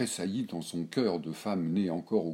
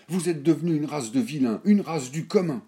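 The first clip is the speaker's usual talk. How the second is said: mild indignant cry, pitched higher; a touch of an old lady's outrage; indignant outcry; 9 semitones higher, 8 dB louder than usual. A narrator's reading. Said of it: "Elle s'écria indignée".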